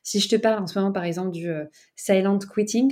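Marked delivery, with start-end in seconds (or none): 2.0-2.9 English term in an English accent. Real, not acted. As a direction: say it with an English accent, drawn out slowly. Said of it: "je le dis avec mon accent anglais". (avec l'accent anglais)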